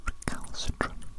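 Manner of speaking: very close, very quiet whisper; close ear whisper. Acted. Tester whispering a test word into the ear, close whisper. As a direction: breathe the word right into the ear. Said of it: "whisper some words into your ears very closely".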